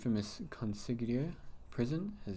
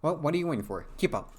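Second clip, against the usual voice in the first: nasally; 5 semitones higher, 4 dB louder, faster than usual. Acted.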